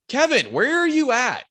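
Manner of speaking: loud, high holler for a missing friend; retold yell. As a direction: shout up the mountain, re-enacting it. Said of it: "We're, like, yelling".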